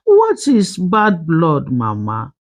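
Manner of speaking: put-on slow, timid child question; trembling little voice. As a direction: ask it small and slowly, unsure. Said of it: "Her small voice trembled".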